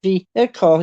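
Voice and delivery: "vehicle" broken by a little bump in the middle; American "vehicle". Retold or imitated. Canadian searching how to describe it, "vehicle" imitated with a bump. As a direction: sound out "vehicle" as vee-ih-cull. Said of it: "you have that little".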